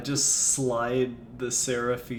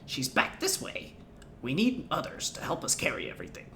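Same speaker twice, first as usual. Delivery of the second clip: goblin voice. Acted. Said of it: "Goblin voices".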